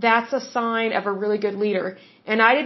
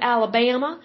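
lightly imitated Alabama accent. Host praising Alabama listeners, mimics their Alabama accent. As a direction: say Alabama as the locals would, stretched middle vowel. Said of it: "I love your accent".

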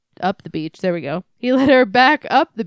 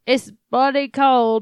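put-on British accent. Reader trying out the man's line in a British accent. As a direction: try the character's British accent. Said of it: "Oh, he has an accent".

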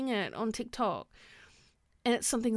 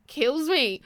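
louder exasperation; 5 semitones higher, 5 dB louder than usual. Real, not acted. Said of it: "it kills me".

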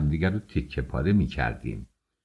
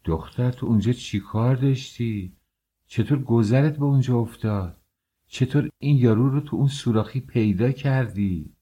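higher, amazed questioning of the sister; amazed asking; 5 semitones higher than usual. Acted. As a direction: ask in disbelief, as if you can't believe it. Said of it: "با حیرت پرسید". (با حیرت و ناباوری، صدای بالاتر)

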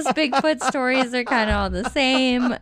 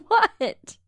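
whisper; 9 semitones higher than usual. Real, not acted. Caught yawning, confused.

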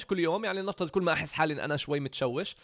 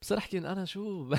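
laughing; 4 semitones higher than usual. Real, not acted. Laughs at his past self.

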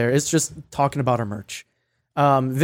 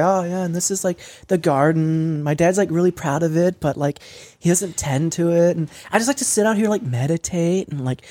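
lightly mocking rich influencer house tour; mock lifestyle-vlogger chatter; affected influencer voice. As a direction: drag out words like a vain influencer. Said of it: "hate everything about how you're talking".

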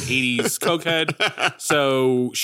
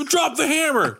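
imitating Michael Rooker. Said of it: "Michael Rooker".

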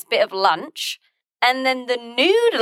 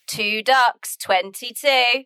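bingo caller; slower than usual. Pretend. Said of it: "I wanna be the bingo caller".

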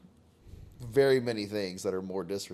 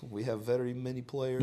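mock Eastern European English; trash Russian accent; 3 semitones higher than usual. Co-host mimicking the player's interview, trash Russian accent. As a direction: do a rough Russian-accented athlete. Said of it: "Trash Russian".

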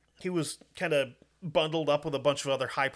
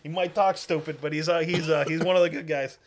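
louder Southern soldier voice; Southern accent; 7 dB louder than usual. Retold or imitated. Soldier vouching for the Brit.

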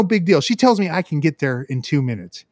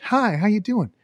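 toned-down greeting; 4 semitones higher, 3 dB quieter than usual. Retold or imitated. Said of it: "bring it down a notch".

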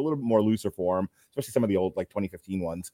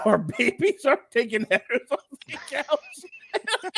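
high and slow through laughter; laughing while talking; 11 semitones higher, slower than usual. Real, not acted. Dad telling his friend of falling babies, cracking up. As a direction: crack up halfway through the sentence.

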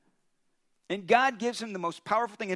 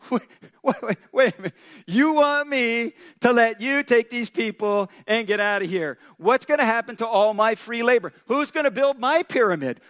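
indignant Pharaoh; 6 dB louder than usual. Acted.

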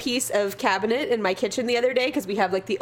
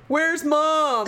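put-on calling child; 6 semitones higher than usual. Imitates child looking for mother.

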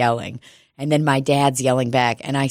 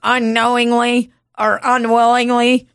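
higher-pitched mock ad question; advert lawyer; 7 semitones higher than usual. Attorney addressing prospective clients, high mock-advert voice. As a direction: pitch it up like a parody commercial.

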